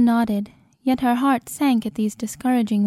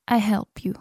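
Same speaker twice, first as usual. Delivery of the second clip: whispered. A narrator's reading. Kind young man confiding.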